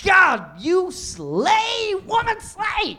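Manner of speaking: high, loud gushing praise; excited gushing. Real, not acted. Guest gushing over the host's style, high and excited.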